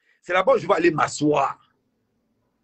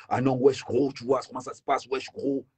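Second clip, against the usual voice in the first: French street slang. Retold or imitated. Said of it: "tu vois deux bamileke dans le métro".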